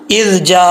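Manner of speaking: इज़ जा with final vowel held one alif; stretched ending. Shown as a demonstration. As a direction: hold the ending of इज़ जा a beat. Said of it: "बस इतना खींचना है।".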